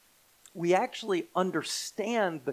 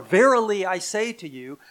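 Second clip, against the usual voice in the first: loud, high attack on "Verily"; commanding attention; 3 semitones higher, 9 dB louder than usual. Acted. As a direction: proclaim it to seize attention. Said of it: "trying to command your undivided attention".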